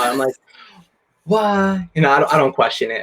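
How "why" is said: high, half-hearted mock wail; playful imitation of tearful awe; mock bawling. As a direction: imitate yourself bawling in disbelief. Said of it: "I'll start bawling my eyes out".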